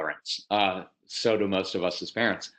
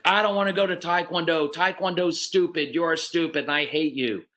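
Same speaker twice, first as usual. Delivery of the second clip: put-on defiant child; 5 semitones higher than usual. Child refusing to go to class, whining defiantly. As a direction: play the kid sulking back at the parent.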